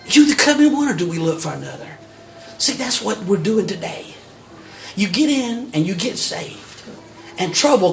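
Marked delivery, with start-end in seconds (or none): 0.1-2.0 bold questioning prophet. Acted. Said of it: "bold as a lion".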